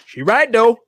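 mock grudging concession. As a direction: concede it half-muttering in character. Voicing himself in the corner.

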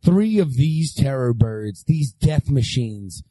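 low, dramatic announcer voice; clickbait video narrator. Acted. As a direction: ham up the doom like clickbait. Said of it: "Ladies and gentlemen ... shocking, terrible".

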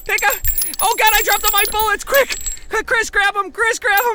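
high frantic urging; panicking gamer. Acted. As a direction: urge him on in panic.

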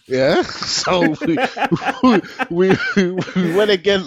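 words tumbling out through laughter; laughing. Real, not acted. Telling the host about going again, laughing. Laughing while retelling the success.

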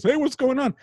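high, hailing Brooklyn father; Brooklyn detective dad. Retold or imitated. Brooklyn dad walks in on son and mom, high put-on greeting. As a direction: imitate a Brooklyn dad breezing in. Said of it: "he talks like a detective from Brooklyn".

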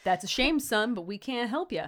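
lightly voiced Southern old-timer; mock Southern brush-off; awful Southern accent. Old dude turning away the stranger, awful Southern accent. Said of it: "in awful Southern accents".

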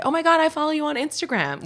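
high, excited fan impression; gushing fan. Actor imitating fans who recognise her, gushing.

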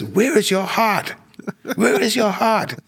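high, drawn-out booming demand; imitating booming voice. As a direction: retell his booming challenge, pitched well up. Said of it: "in a very loud, booming voice too".

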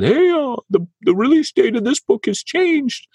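high, chirpy mock announcement; mock email voice. Mock-cheerful email to pre-order customers. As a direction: read it like a cheery notice.

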